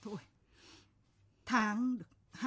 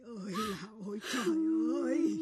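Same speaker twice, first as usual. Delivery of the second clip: dismayed outcry; much faster than usual. Acted.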